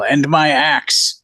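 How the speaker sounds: hammed-up war cry, held back in volume; nonsensical battle yell. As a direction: yell it slowly as the axe swings. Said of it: "hear him kinda nonsensically yell".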